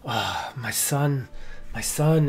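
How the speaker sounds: mild, barely held-together gratitude; holding back tears. Acted. Tearful father thanking the party for his son, mildly choked. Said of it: "he's crying".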